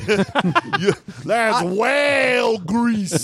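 high, slow shouted accusation; mock accusing shout.

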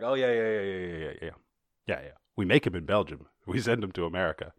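lightly put-on Flemish accent; chatty, mock Flemish speaker. Belgians bragging about their vaccines, light Flemish accent. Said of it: "a Flemish accent".

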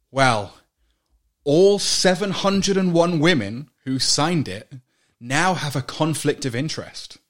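slow, pompous corporate statement; mock official voice. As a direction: read it like a smug press release. Mocking TV2 statement.

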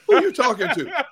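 a stern grandpa question with a laugh in it; mock stern, laughing. Grandpa scolding a three-year-old, mock stern and laughing. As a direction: play the tough grandpa half-joking. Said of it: "I said".

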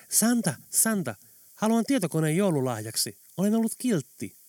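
put-on a small boy pleading with Santa; excited little boy. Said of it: "poika selitti". (pieni poika pukille innoissaan, korkealla äänellä)

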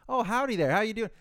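high, loud cheery agent greeting; chipper phone rep. Retold or imitated. Support agent greeting the caller, high and loud cheer. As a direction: pitch way up like an overly friendly support agent.

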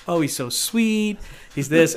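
put-on high, slow, swooning girly voice; gushing girl. Casting guy mimics a smitten contestant, high gushing voice. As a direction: gush over him like a smitten young woman. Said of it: "And she'd be like".

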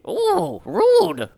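very high, offended little exclamation; mock affront. Freed adventurer objects to the guard's rough handling, mock affront. Acted reaction to rough rescue.

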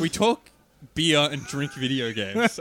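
slow, drawn-out host intro; radio intro voice. Pretend. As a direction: savour each word like a show host. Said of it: "is this why I do the intros?".

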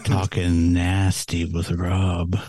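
slow, low sultry voice; lightly voiced phone sex line. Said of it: "Damn, that sex line".

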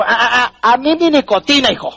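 lightly voiced smug body; mocking addicted body. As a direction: tease the smoker who thinks he can quit.

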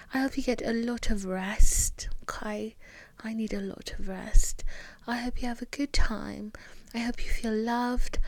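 tuck listeners in gently; tender wishes. Real, not acted.

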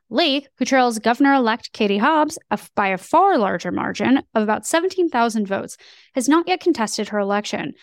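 polished news anchor read; newscaster voice. Acted. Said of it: "you definitely take on a newscaster voice".

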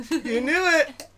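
high, loud burst of delight. Real, not acted. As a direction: crow it, thrilled at being understood. Delighted that reference was recognized.

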